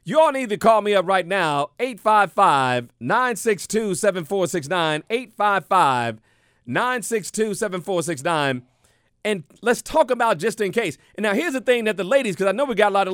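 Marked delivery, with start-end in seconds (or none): 1.8-5.0 slow number read. Real, not acted. Reading phone number slowly. 5.1-8.6 slow number read. Real, not acted. Repeating phone number slowly.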